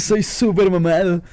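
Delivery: imitación ligera de Hércules, fanfarrón; voz de Hércules. Retold or imitated. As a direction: presume como Hércules, despacio. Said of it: "Hércules habla como así". (imitando a Hércules musculoso)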